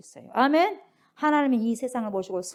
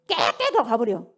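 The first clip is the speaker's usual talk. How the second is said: ordinary talk, nothing marked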